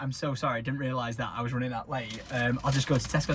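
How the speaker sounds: low, soft, apologetic; quiet embarrassed apology; sheepish apology. Retold or imitated. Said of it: "I was like".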